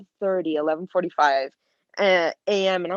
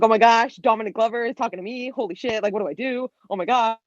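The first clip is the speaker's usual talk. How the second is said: higher-pitched retold fangirl panic; freaking out; 4 semitones higher, faster than usual. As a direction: replay your inner freak-out, pitched up. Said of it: "I'm freaking out".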